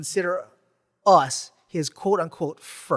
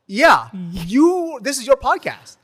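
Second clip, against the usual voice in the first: put-on excited kids; 5 semitones higher, 6 dB louder than usual. Kids excitedly recognizing the host.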